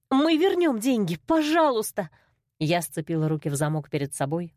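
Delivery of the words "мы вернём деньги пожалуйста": higher and louder begging; a sister pleading loudly for her brother; desperate plea. A narrator's reading. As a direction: cry out please in panic. Sister begs the boss.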